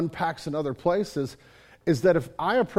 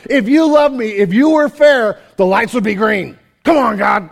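exasperated demand; 6 semitones higher, 13 dB louder than usual. Retold or imitated. Pastor acting his red-light rant at God, loud and exasperated. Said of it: "I'm like".

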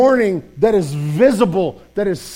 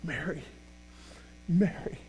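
much softer, gentle rising name; tender call; 4 semitones lower, 15 dB quieter than usual. Acted. Jesus to Mary at the grave, soft tender calling. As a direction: speak her name with quiet love. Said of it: "the voice who is standing ... looking at Mary going".

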